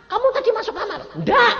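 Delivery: high, laughing voice; laughing question. Retold or imitated. Preacher retelling asking his wife, laughing high. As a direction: ask through a laugh, high.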